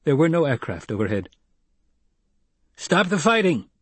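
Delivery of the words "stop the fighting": bellowed. Acted. Gurney yelling at his men, bellowing. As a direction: roar it across the ridge. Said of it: "Gurney bellowed".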